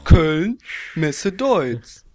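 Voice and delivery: slow announcer voice, stop by stop; subway announcement. Pretend. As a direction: read it like a train PA. Mock train stop announcement.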